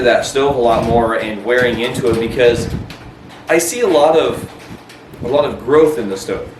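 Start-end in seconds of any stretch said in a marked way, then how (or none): 3.5-6.5 hiccupping between words; hiccups. Real, not acted. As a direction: talk with the hiccups. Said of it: "I have the hiccups now".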